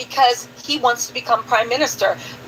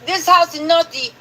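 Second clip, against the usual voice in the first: put-on Belize accent. Host quoting the House speech to viewers, imitated Belizean accent. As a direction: try a Belizean politician's accent. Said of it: "That was a good accent".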